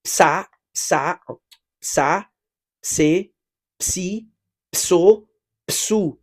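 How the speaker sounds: "psa" with P and S both sounded, no vowel between; "psa, pse, psi, pso, psou" sounded as ps plus vowel, P fully voiced out; ps syllables. Shown as a demonstration. Teacher drills Haitian students on Portuguese ps, careful pronunciation. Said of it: "Ou va di konsa".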